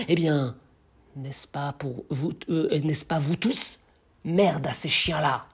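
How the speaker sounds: declamation building to a curse; poem recitation. Acted. The blacksmith turns to the crowd against old kings, defiant declamation. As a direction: drive the verse on, pause, then deliver the insult.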